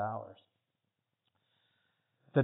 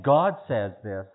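emphatic quote; 9 dB louder, slower than usual. Retold or imitated.

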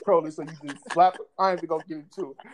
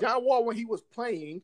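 slow rephrase; 3 semitones higher, slower than usual. Real, not acted. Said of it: "Let me rephrase that".

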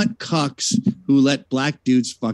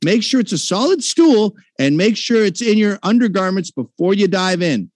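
mock public service announcement; 3 semitones higher than usual. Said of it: "This has been a message from Pool Shit".

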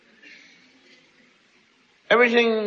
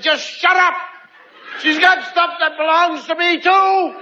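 lightly voiced sulky kid; 9 semitones higher than usual. Older child snapping back.

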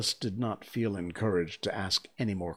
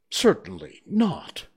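high, loud, offended retort; huffy and offended; indignant; 11 semitones higher, 8 dB louder, slower than usual. Acted. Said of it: "said Alice indignantly".

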